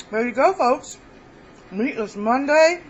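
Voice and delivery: talking with a mouth full; words round a bite of food. Real, not acted. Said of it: "Sorry, I'm talking with my mouth full".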